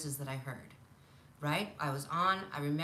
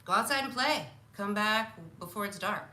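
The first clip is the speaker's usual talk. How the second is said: put-on parent sending kids out; 3 semitones higher, 5 dB louder than usual. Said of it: "a time where the parents said".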